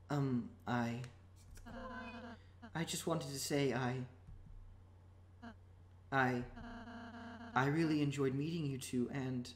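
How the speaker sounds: soft, halting mumble; mumbling. Acted. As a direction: mumble shyly into a hat. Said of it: "stop mumbling in your hat".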